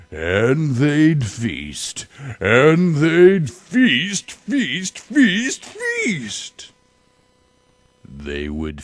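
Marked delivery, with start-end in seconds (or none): 0.1-6.7 each feast higher, ending far higher; escalating storybook build; building frenzy. Acted. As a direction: climb the pitch on every repeat.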